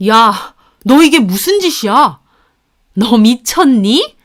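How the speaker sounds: loud, aghast scolding; appalled, angry in-law voice; shocked outrage. A narrator's reading. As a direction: react in horror with a drawn-out question. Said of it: "깜짝 놀라더군요".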